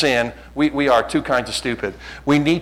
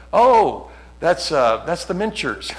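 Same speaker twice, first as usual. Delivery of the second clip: imitating wife; 5 semitones higher, slower than usual. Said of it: "She'll go".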